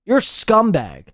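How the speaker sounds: ordinary talk, nothing marked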